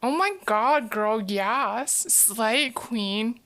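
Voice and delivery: attempted Valley Girl gush; Valley Girl accent. Shown as a demonstration. Streamer attempts the accent for chat, mock Valley Girl. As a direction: try a Valley Girl accent, lightly hammed-up. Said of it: "difficult to do a Valley Girl accent".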